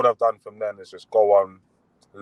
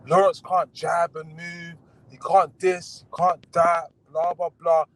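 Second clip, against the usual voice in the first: higher-pitched retelling of a critic; mock dismissive; 6 semitones higher, slower than usual. Boxer retelling a commentator's doubts about him, mock dismissive. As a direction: lightly mimic a critic running someone down, pitched up.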